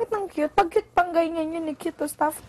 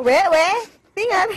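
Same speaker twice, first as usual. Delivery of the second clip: excited quote; 3 semitones higher, 8 dB louder than usual. Retold or imitated. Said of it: "Sabi niya".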